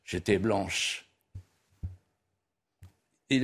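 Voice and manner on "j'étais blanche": slow, slightly subdued retold answer; réponse hésitante. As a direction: act out a reluctant admission, drawn out and low. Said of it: "elle hésite, puis elle dit". (réponse hésitante, lente et un peu basse)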